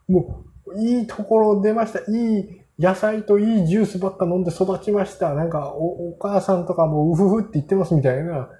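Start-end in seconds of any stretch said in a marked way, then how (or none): 0.8-5.3 a higher, mock-refined voice for the well-bred butlers; posh butler impression. Teller mocking the flawless butlers, in a higher mock-genteel voice. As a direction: play up their perfect upbringing in a mock genteel tone.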